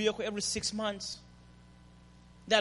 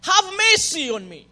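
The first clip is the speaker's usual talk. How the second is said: pleading; 7 semitones higher, 9 dB louder than usual. Retold or imitated. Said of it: "she says".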